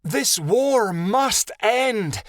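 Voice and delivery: high, slow commanding cry. A narrator's reading. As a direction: call out to halt the war. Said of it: "the she-wolf cried".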